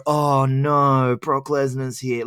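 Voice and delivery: slow, drawn-out dismay; imitating a deflated wrestler; mock dejection. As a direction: groan it like a beaten wrestler. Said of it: "he looked dejected".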